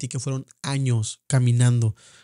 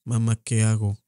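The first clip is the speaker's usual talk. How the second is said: lower, dazed cry for help; frozen in shock, asking mom; stunned plea; 4 semitones lower than usual. Shown as a demonstration. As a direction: re-enact the shock, helpless. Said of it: "yo le hice así literal".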